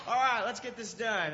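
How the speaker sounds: brisk pep talk. Retold or imitated. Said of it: "And I'm like".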